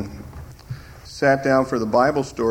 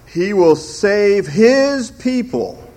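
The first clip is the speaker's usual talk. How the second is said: raised, higher mock-insistent arguer; hammed-up, louder lecturing voice; imitating opponents; 6 semitones higher, 5 dB louder than usual. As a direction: parody a confident teacher of the other view. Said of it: "the way they do that is they say".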